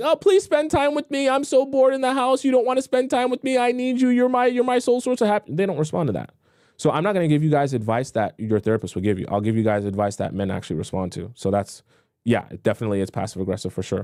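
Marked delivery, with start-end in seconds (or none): 0.0-5.5 high, whiny, needy mock begging. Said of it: "When you start begging".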